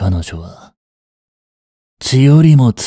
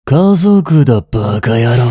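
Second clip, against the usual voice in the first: sharp, loud, raised burst at the doctor; angry shout; 2 semitones higher, 4 dB louder than usual. Acted. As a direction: bark it out in anger. Snaps at doctor blocking the room.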